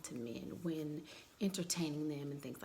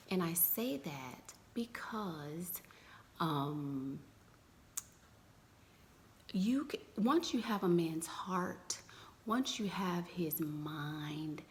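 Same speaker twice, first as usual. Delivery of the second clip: whispering; slower than usual. Real, not acted. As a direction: keep it a hushed whisper. Whispers throughout.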